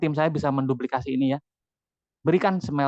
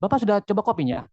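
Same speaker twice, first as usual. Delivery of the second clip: mock testy question, falling at the end; put-on brusque questioning; imagined irritated reading; 3 semitones higher, faster than usual. Shown as a demonstration. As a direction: mimic how a grumpy reader hears it. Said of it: "kalau dia lagi bete".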